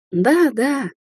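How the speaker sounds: limp wave-off. Acted. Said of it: "вяло отмахнулась Кварц".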